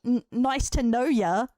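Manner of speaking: slow, questioning lift on "know ya"; slow mock quote with "know ya" lifted; mocking wrong slang. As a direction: quote "know ya" incredulously, drawn out and rising. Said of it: "That slang don't make no sense".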